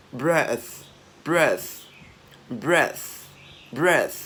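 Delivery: "breath" loud, ending in a puff of TH; teacher's drill of "breath", last sound stressed; released final TH. Shown as a demonstration. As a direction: blow out the TH at the end of "breath". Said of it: "cái âm T H mà chúng ta bật hơi ra".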